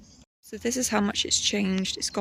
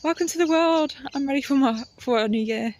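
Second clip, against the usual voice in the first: high, loud, cheery fern greeting the world; talking fern; 5 semitones higher, 7 dB louder than usual. Pretend. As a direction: give the little fern a bright squeaky hello. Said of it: "it's like".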